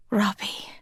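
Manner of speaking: breathless whisper of his name. A narrator's reading. Marta whispering to Robbie in surprise. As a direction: whisper it in shock. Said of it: "she whispered".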